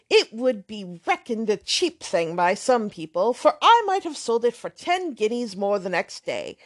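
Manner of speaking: lightly voiced swaggering young man; boastful young man. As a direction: show off the gig to impress her. Thorpe boasts about his gig.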